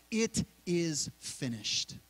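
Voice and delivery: drawn-out, slow mild cry of it is finished; cried out. Retold or imitated. Jesus crying out from the cross, a slow mild cry. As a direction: stretch each word out, solemn and final. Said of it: "he cried out".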